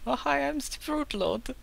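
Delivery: very high, slow put-on voice; silly cultist accent. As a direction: introduce yourself as a squeaky, ridiculous cultist. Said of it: "all the cultists have a Hunt's accent".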